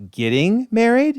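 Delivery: high, rising shocked question; surprised question. Retold or imitated. Aunt stunned to hear Peter is getting married, high surprised question. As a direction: sound stunned by the news.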